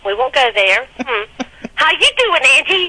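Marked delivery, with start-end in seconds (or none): 1.8-2.9 mock catchphrase. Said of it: "From Norbit".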